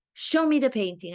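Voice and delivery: urging instruction. Retold or imitated. Acting coach directing an actor mid-exercise, urging. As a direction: urge the actor on.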